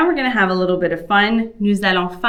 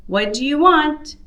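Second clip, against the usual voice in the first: higher woman's voice, a bit louder; female character voice; 7 semitones higher, 3 dB louder than usual. Acted. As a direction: ask as the woman what he wants. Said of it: "a different voice for the female character".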